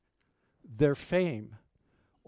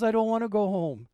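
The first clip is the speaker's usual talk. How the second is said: higher little girl, lightly voiced; a hint of a stubborn small child; mildly imitating a child refusing; 5 semitones higher than usual. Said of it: "She goes".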